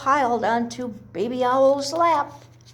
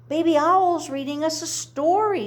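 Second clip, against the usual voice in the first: excited shout; 5 semitones higher than usual. Acted. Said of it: "shouted Tiny Chick".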